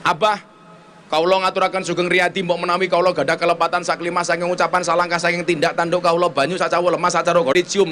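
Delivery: low, even, quick formal recitation; refined Javanese wife. Retold or imitated. Wife begging husband's pardon at Lebaran, refined and low. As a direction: imitate a very polite Javanese apology, rattled off low. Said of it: "ngomongnya pakai bahasa Jawa halus banget".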